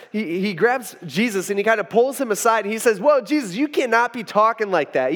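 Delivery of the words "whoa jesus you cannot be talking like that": raised, emphatic scolding; rebuking. Acted. Peter pulling Jesus aside to correct him, rebuking. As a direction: pull him up short with a firm objection. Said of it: "He rebukes Jesus".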